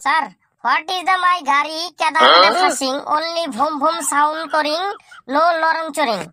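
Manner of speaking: slow, laboured pupil's English; halting schoolboy attempt at English; faltering broken English. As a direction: piece the mangled English together slowly. Pupil struggles through mock broken English.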